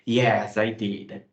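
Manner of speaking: slow, firm "Yes, I did."; slow contradiction. Shown as a demonstration. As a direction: insist calmly that you did. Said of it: "aqui eu estou contradizendo". (contradizendo devagar e firme)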